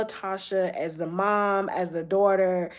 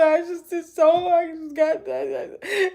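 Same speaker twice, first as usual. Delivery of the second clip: higher, tearful half-laughing quote; retold crying; 7 semitones higher, slower than usual. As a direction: re-enact choking up while half laughing. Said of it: "I was just crying".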